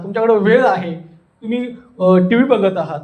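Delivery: ordinary talk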